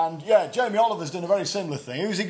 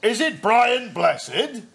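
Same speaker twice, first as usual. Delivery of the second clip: posh self-impression; 2 semitones higher, 4 dB louder than usual. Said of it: "All right, hang on".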